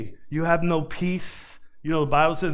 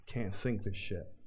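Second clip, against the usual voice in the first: arrogant boast; 2 semitones lower, 4 dB quieter than usual. Acted. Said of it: "You know what they said, the builders?".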